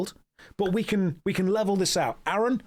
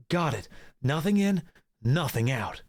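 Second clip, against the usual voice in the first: shonen anime protagonist. Acted. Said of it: "My character is voiced like a shonen anime protagonist".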